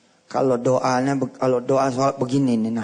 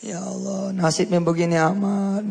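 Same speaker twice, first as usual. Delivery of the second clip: mild imitation of a crying child's plea; tearful lament; 3 semitones higher than usual. Preacher voices the crying child praying to Allah, mock tearful lament. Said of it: "Kali itu dia nangis".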